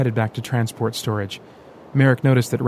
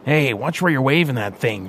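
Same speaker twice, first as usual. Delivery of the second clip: yelled; 3 semitones higher than usual. Acted. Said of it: "Vincent yelled".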